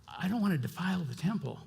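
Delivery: soft, quick, polite excuse; mock pious excuse. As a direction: brush the truth aside piously. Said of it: "we don't really want to admit the truth".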